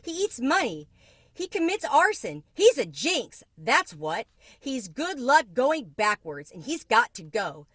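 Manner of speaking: high, loud scolding list, slowing on going backwards; Mama lists the cricket's crimes to Mario; indignant tirade. A narrator's reading. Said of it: "said Mama indignantly".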